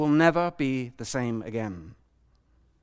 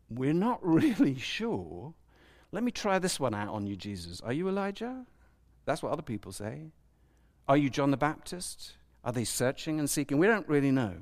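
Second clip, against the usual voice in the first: unsure and a little sheepish, with a soft laugh, quieter and slowing at the start; unsure, half-laughing; 5 dB quieter than usual. Shown as a demonstration. Disciples trying out guesses on Jesus, sheepish. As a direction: float each guess, not sure of any. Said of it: "we don't get from the text is the tone of voice".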